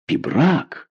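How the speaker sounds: name rising high in recognition; a sudden glad recognition; surprised cry. A narrator's reading. The king recognises Pibrac in the dark, rising high. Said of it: "вскричал король".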